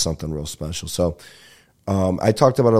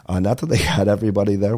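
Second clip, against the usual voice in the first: laughing; 2 semitones higher, faster than usual. Shown as a demonstration. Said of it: "What am I doing, Parmesan cheese".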